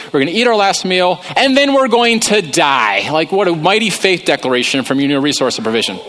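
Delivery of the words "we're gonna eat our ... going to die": hammed-up doom; lightly voiced widow overplaying her last meal; despairing widow. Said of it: "She says".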